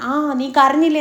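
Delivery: light, needling imitation of an over-eager tease; a hint of hyper taunting; mock hyper teasing. Shanavas needling Anu about crying, mock hyper. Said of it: "കുറച്ച് hyper active പോലെ".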